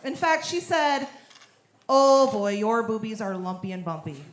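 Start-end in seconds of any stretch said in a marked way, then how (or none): 1.9-4.2 light Minnesotan accent, lightly imitated; a hint of Minnesota gynecologist in the vowels. Gynecologist telling her about her boobs, a light Minnesotan accent. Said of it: "It's a Minnesotan accent".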